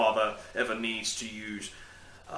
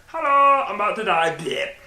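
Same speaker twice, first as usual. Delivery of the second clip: high, loud little gadget voice; voicing the dying battery; 8 semitones higher, 8 dB louder than usual. Camera battery complaining it is about to die, mock high voice.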